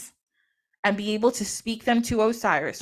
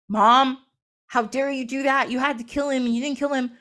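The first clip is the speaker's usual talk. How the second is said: mock-mad son; 3 semitones higher than usual. Horus blaming mother for sparing Set, mock mad. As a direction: confront mom in acted outrage. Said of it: "he gets so mad".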